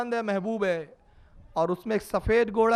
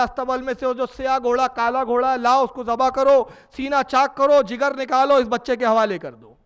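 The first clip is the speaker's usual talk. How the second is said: commanding order; 5 semitones higher, 7 dB louder than usual. Acted. Imam orders slave to slaughter horse.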